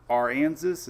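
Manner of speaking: "Aransas" as ar-AN-zus, unsure; sounding out "Aransas" as ar-AN-zus; tentative pronunciation. Shown as a demonstration. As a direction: try "Aransas" with a Kansas-like middle, questioning. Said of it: "Is that how you pronounce it".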